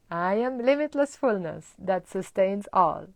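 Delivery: loud confident affirmation; empowered affirmation. Shown as a demonstration. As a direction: proclaim it with conviction. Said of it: "We're changing that pattern".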